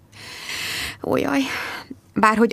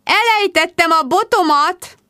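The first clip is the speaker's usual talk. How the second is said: magas, hangos sipítás; hisztérikusan kiabálja a bajt; rikoltás; 11 semitones higher, 4 dB louder than usual. A narrator's reading. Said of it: "rikoltott Rebecca". (magasan, hangosan sipítva)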